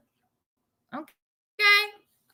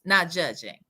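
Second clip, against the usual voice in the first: Sonya; 11 semitones lower, 4 dB quieter than usual. Acted. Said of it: "her sentences are like this".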